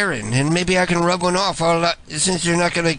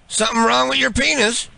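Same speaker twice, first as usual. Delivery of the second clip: higher, overly friendly fake pal; chummy prank caller; 7 semitones higher than usual. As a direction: greet him like an old buddy he's never met. Prank caller playing a fake persona.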